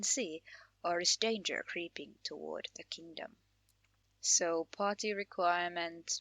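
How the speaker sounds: measured storyteller read of the quest intro; quest text narration. A narrator's reading. Streamer reading the game's quest intro to viewers, storyteller read. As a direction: read it like the opening of a tale.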